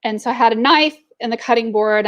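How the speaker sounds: normal talking voice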